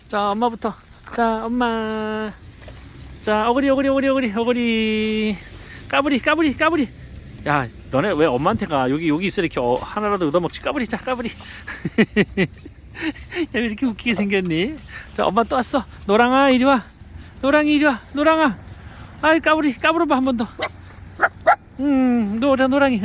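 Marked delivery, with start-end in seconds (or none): 3.2-6.9 calling the pets. Real, not acted. 16.1-23.0 calling the pet. Real, not acted.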